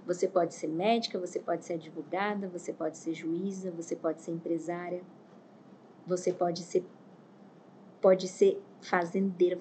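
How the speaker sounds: soft, low and measured; hushed, deliberate voice of God; solemn retold counsel. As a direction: quietly deliver a grave truth from above. God's words to her, solemnly retold.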